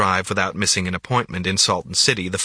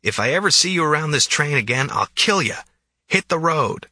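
growling; 7 semitones higher than usual. A narrator's reading. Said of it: "then growled".

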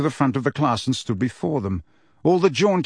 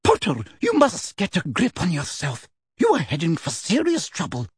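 stern warning; 5 semitones higher than usual. Acted. McGonagall warns Harry.

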